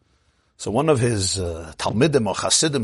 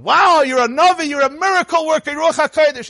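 amazed; 6 dB louder than usual. A narrator's reading. Amazed man praises the rebbe.

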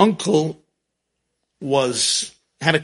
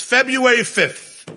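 slow quote; 8 semitones higher, slower than usual. Retold or imitated. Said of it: "She says".

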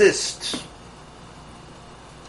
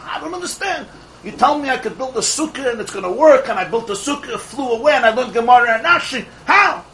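higher, baffled complaint building to a cry; indignant student; 4 semitones higher than usual. Retold or imitated. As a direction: protest to the Rav, rising to How.

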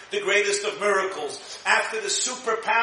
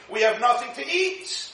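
mock screaming; 5 semitones higher than usual. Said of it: "the Jews are screaming".

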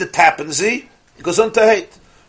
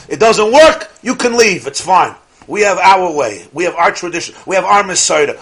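loud scornful dismissal; mock indignant zealots; 3 semitones higher, 6 dB louder than usual. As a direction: brush God off indignantly. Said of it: "They would tell God".

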